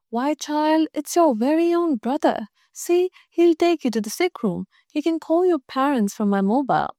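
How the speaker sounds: a hint of a concerned school head; kindly principal. Principal fussing over a pupil, lightly voiced.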